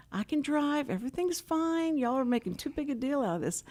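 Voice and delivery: high-pitched imitated protest; dismissive insistence. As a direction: brush off everyone's fuss. Retells husband brushing off concern.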